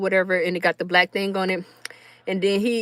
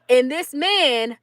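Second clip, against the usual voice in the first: usual speaking voice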